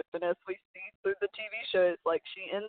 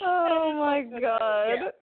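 mock Georgia accent; 6 semitones higher, 5 dB louder, much slower than usual. Friend echoes the Georgia voice.

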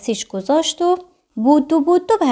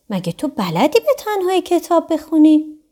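surprised; 5 semitones higher than usual. Acted. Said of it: "با تعجب پرسید".

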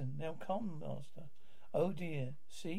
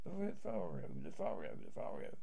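calling out; 9 semitones lower than usual. Acted. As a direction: call the name across the stage. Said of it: "Just working myself up then".

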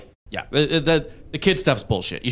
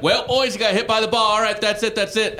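high smug coach voice, higher pitched; mock lying coach; 9 semitones higher than usual. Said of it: "And the coach is like".

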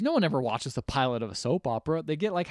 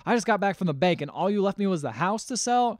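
higher, mildly acted angry complaint; retold yelling; 7 semitones higher, 3 dB louder than usual. Wife confronting husband over money, retold yelling. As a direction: act out an indignant row without fully shouting. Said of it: "And yells at her husband".

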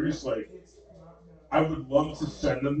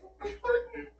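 exasperated oh my god; 5 dB quieter than usual. Retold or imitated. Exasperated reaction after laughing.

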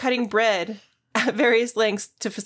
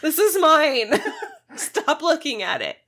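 evil queen; 7 semitones higher, slower than usual. Pretend. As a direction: snap it out like a spoiled queen. Voicing the possessive lady.

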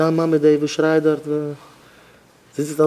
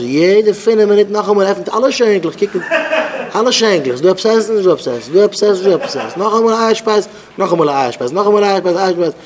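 mock exasperation; 4 semitones higher, 3 dB louder than usual. Mocking the nonstop cupboard raids for food, exasperated singsong. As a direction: hammer each repeat in seesawing pitch. Mimics endless opening of cupboards, snacking.

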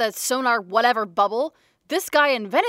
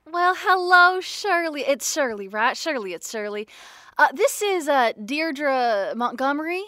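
sweet-talking con-artist voice, pitched up; weird put-on voice; 2 semitones higher than usual. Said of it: "The weird voice thing you do kinda freaks me out".

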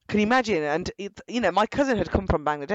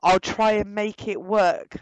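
patronizing; 2 semitones higher, slower than usual. Retold or imitated. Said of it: "this is how patronizing this guy is".

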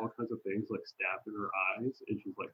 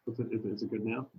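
muffled, boomy mic sound; talking through a bad mic; inside a fishbowl; faster than usual. Real, not acted. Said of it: "it sounds like you're in a fishbowl".

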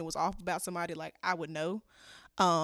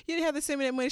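grateful victim voice; 9 semitones higher, 3 dB quieter, faster than usual. Retold or imitated. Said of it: "she was like".

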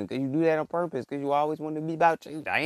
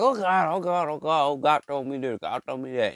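mock church folk. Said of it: "They be like".

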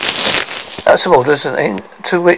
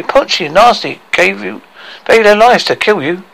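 higher, boastful dwarf statement; proud; 7 semitones higher, 3 dB louder than usual. Acted. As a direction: declare the sacrifice with pride. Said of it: "said Tricky proudly".

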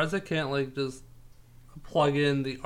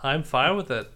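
ordinary talk, nothing marked

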